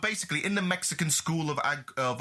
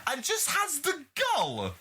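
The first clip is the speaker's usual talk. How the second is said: slowly building indignation; indignant rant; 3 semitones higher, slower than usual. Real, not acted. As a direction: rant from the soapbox. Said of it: "I'm gonna get on my soapbox".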